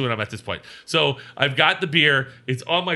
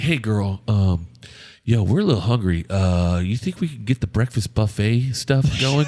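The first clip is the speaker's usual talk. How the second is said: lower, smooth sweet-talk; smooth charmer; 4 semitones lower than usual. Retold or imitated. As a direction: charm the manager. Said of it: "He's like".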